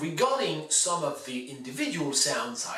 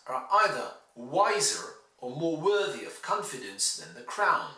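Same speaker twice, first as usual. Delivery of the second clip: clear, emphatic reading of a political text; measured model reading, each key word stressed; formal reading aloud; 3 semitones higher than usual. Shown as a demonstration. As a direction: read it out with lively, deliberate word stress. Reads excerpt aloud as model.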